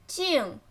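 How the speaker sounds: 镜 set apart, starting high; careful teaching take of 镜; tone demonstration. Shown as a demonstration. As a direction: say 镜 alone, carefully, from high pitch. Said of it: "first tone".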